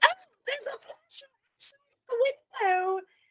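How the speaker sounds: put-on very high, elderly lady voice. Retelling a tv character playing an old woman outside the precinct, old woman voice. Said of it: "he's playing an old woman".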